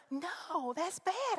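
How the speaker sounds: high, loud indignant retort; exasperated protest. Retold or imitated. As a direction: push back, incredulous and loud. Protesting pastor's odd reply.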